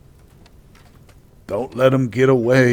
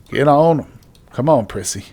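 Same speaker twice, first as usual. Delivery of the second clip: shouting orders over battle; 4 semitones higher, 3 dB louder than usual. Real, not acted. Urging fighters to attack.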